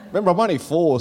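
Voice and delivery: high, loud and laughing. Retold or imitated. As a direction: laugh through the kid's confusion. Laughing retelling kid confusion.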